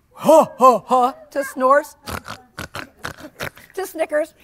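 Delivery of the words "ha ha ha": guffaw. Acted. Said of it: "their laughter changed from guffaws".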